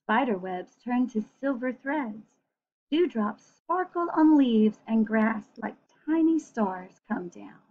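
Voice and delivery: gentle storybook reading voice; reading to children. A narrator's reading. Reading a picture book aloud to children, gently.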